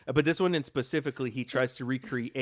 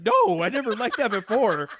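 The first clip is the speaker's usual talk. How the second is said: mimicking Brittany; 10 semitones higher, 7 dB louder than usual. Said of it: "You're like".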